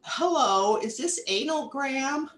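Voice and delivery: put-on high, quavering old lady voice; quavering little old lady. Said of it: "a quavering little old lady voice said".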